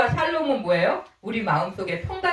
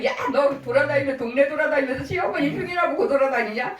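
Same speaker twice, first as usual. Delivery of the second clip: mild mock scolding, pitched higher; a touch of higher-pitched reproach, acted out; retold angry scolding; 4 semitones higher than usual. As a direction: imitate a cross mother-in-law telling someone off, lightly. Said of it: "저한테 또 막 화를 내고 막 그래요".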